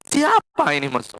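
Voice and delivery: a sleepy husband jolted awake; startled husband. Retold or imitated. Husband woken by the wife's new greeting, startled.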